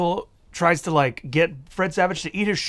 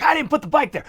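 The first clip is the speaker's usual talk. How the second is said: mock whiny kid; 9 semitones higher than usual. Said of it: "Fred Savage is like".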